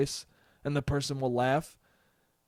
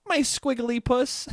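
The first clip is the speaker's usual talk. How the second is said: higher, slow syrupy coo; cutesy pet name; 9 semitones higher, slower than usual. Retold or imitated.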